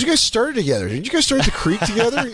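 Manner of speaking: high-pitched mock girl voice; curious girl. Comic voicing a girl asking about comedians' past, high-pitched. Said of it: "she goes".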